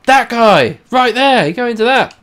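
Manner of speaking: loud, high yells at a game character; urgent calls to the character on screen; shouting at the screen. Real, not acted. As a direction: bark orders at the little guy.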